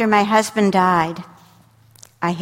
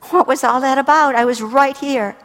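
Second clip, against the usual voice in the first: mock exasperation; 5 semitones higher, 4 dB louder than usual. Mother's exasperated thought.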